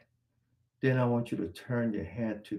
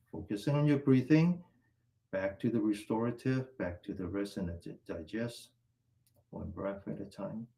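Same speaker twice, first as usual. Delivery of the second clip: calming breath guidance; 3 semitones lower than usual. Acted. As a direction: ease them down into calm breathing.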